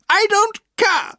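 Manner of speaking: put-on high, loud furious old-lady yell; angry shouting. A narrator's reading. Aunt shouts at the Murdstones riding on her grass, furious. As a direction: drive them off her lawn. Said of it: "she shouted".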